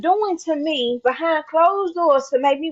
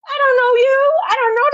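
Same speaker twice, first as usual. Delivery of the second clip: confrontational; 9 semitones higher, 3 dB louder than usual. Real, not acted. Confronting fake people.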